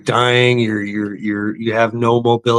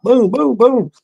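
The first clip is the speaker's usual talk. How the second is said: mock boom; 12 semitones higher, slower than usual. Mocking money thrown away.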